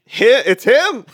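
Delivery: very high, excited recognition; hammed-up high surprise; mock astonishment. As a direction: squeal it in playful shock. Playful re-voicing of recognition line.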